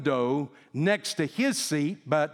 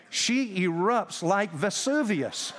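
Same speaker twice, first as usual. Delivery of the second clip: laughing; 4 semitones higher, slower than usual. Real, not acted. Punchline of the plane story.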